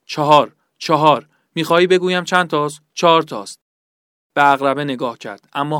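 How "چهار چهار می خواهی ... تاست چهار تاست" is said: louder, pained insistence; a tortured man's strained protest; desperate under torture. Acted. Tortured man answers his interrogator.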